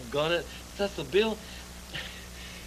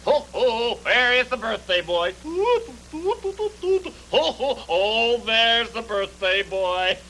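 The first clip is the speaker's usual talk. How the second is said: jolly greeting; 5 semitones higher, 3 dB louder, slower than usual. Acted. Greeting the birthday boy.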